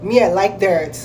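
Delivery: mock twanged Kenyan accent; imitated twang. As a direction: mimic a Kenyan trying to twang. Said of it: "when they try and twang".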